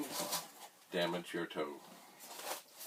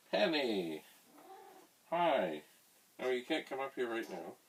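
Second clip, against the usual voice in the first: raised voice, calling someone away; yelling across the room; 4 semitones higher than usual. Real, not acted. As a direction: call out to someone across the house. Calling out to Penny.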